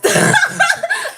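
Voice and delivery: shrieking high cackle; high laugh. Real, not acted. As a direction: burst into a squealing laugh. Cracks up.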